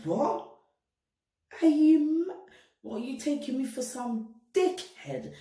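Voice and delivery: high, loud indignant shout; outraged retort. Retold or imitated. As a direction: fire it back in disbelief, voice jumping up. Retold outrage at boyfriend's request.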